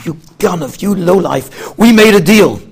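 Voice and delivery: mild mock yell rising into a shout; retold screaming. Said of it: "Moshe starts screaming".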